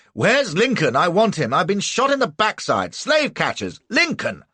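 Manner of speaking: desperate shouting. A narrator's reading. Wounded man shouts for Lincoln.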